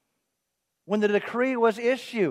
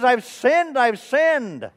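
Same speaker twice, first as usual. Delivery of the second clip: higher, louder hammed-up lament; mock weeping; 4 semitones higher, 5 dB louder, much slower than usual. Driver confessing to the nun after the kiss, mock weeping. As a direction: wail a confession in pretend tears. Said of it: "He begins to weep, almost uncontrollably".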